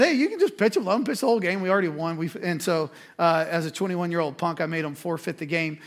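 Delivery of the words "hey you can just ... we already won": much higher, louder taunt; excited taunt. Retold or imitated. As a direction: gloat it, high and eager. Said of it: "I said".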